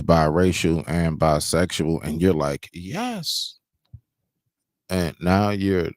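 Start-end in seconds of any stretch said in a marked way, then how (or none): 2.7-3.6 high, breathy mocking yes; mock girly yes. Mocking a woman answering.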